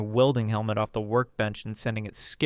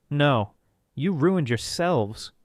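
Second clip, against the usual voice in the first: firm rebuke; 4 semitones higher, 4 dB louder, much slower than usual. Acted. Jack's final rebuke.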